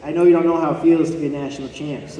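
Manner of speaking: chuckling brag with the word feels leaned on; laughing gloat. Retold or imitated. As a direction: tease the rival through a laugh. Gloating text to his old rival.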